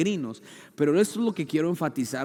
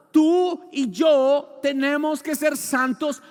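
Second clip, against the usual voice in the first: preaching; 10 semitones higher, 9 dB louder, much slower than usual. Acted. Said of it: "repeated with a shout".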